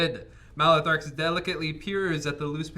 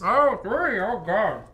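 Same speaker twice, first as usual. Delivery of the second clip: dismayed surprise; 8 semitones higher, 6 dB louder, slower than usual. Real, not acted. Dreading the Book passage.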